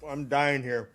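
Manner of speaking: laughing through a mouthful of peanut butter; giggling round a sticky bite; laughing with mouth full. Real, not acted. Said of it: "talking with my mouth full".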